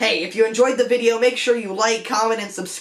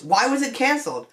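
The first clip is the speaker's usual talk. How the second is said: high-pitched; 4 semitones higher than usual. Real, not acted. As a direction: voice rising high on the question. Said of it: "My voice got a little high-pitched there".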